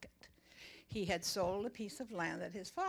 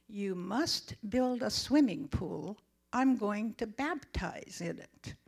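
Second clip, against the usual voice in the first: slow, solemn divine command; voice of God; 4 dB louder, slower than usual. Retold or imitated. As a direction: deliver it slowly like a heavenly voice. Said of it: "this voice behind me says".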